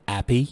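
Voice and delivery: happy said as appy, no H; appy with silent H; dropped H. Shown as a demonstration. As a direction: drop the H in happy, Cockney style. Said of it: "ما ينطقون حرف ال H".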